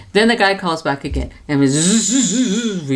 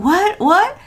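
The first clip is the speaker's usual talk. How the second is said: high alarmed repeated what; 12 semitones higher, 3 dB louder than usual. Retold or imitated. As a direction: call out in confused alarm. Alarmed at scam call.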